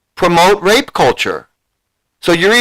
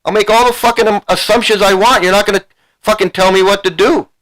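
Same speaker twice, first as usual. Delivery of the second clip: heated scolding; 4 semitones higher than usual. Real, not acted. Berating the viewer.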